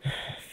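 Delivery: short sigh of mild disgust; vaguely disgusted sigh. Acted. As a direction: let out a faintly disgusted huff. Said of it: "there's a noise of vague disgust".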